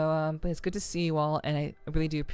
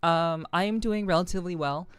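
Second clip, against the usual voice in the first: sore, scratchy throat voice. Real, not acted. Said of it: "forgive my scratchy voice".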